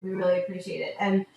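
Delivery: soft, sincere parting thanks; see loved ones off softly; tender goodbye. Real, not acted. Saying goodbye to departing guests.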